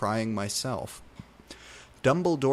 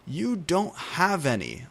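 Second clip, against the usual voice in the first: yelled madly; 7 semitones higher than usual. A narrator's reading. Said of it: "I yelled madly".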